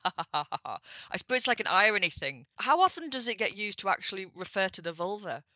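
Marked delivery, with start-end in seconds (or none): 0.0-0.8 light mock laugh, ha ha ha; a spelled-out mock laugh between mates. Shown as a demonstration. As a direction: laugh it off like an in-joke. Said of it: "it is like an in-joke".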